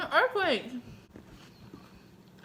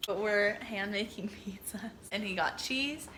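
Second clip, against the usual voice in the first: whispering; 8 dB quieter than usual. Real, not acted. Whispering while filming.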